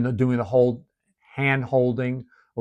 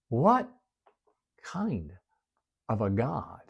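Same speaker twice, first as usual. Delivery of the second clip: awed hush; 2 semitones lower, 10 dB quieter, slower than usual. Real, not acted. Hushed wonder at God.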